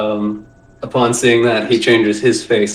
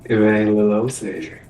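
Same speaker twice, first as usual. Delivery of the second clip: put-on a rough stab at a Cajun accent; shitty Cajun accent; 2 semitones lower than usual. Fletcher recognizing an old acquaintance, in a shaky Cajun accent. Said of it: "trying to do a shitty Cajun accent".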